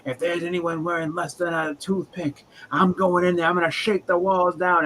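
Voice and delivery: lightly voiced tough guy, slow start; mock macho threat. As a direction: ham up a cocky brawler's boast. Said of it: "He's like".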